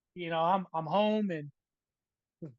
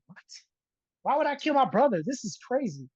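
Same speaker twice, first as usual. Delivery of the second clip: retold disbelief; 5 semitones higher than usual. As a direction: act out being falsely accused, pitched up. Accused of smothering his brother.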